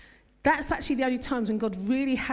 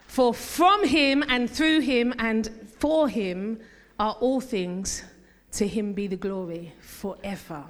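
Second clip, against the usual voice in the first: slow reading; slower than usual. Shown as a demonstration. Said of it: "I'm gonna say it again".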